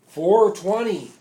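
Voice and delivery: loud, high, slow crowd response; chanted crowd answer; crowd yelling back. Retold or imitated. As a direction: shout it back like thousands in a crowd. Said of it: "the crowd starts yelling back".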